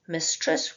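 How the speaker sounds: "mistress" said slowly in two distinct parts; exaggerated syllables. Shown as a demonstration. Teacher counting syllables for students, exaggerated pronunciation. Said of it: "I just exaggerated it there".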